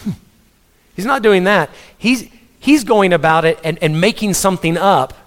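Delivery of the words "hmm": sulky huff, quick and put-on; mock pouting. Preacher imitating someone refusing what God told him, mock pouting. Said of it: "he's sitting down pouting".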